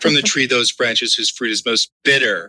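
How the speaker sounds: suggestive scripture reading; mock-lascivious reading. Co-host making scripture sound dirty, mock-lascivious. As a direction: play the verse as innuendo. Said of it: "read it like it was really dirty".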